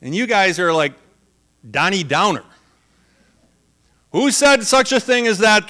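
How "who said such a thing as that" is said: demanding. Retold or imitated. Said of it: "they demanded".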